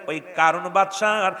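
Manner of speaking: usual speaking voice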